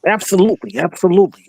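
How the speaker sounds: lingering announcer voice. Retold or imitated. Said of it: "why am I talking like them still".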